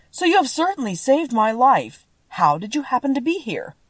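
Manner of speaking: lightly voiced tin man, relieved; grateful tin man. A narrator's reading. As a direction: speak up as a tin man being freed.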